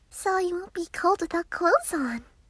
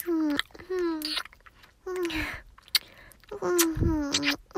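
little girl playing lion, roaring gently; playful mock roar. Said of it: "roar into your ears".

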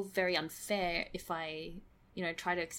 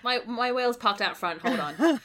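laughing; 3 semitones higher, 6 dB louder than usual. Real, not acted. Joking, laughing.

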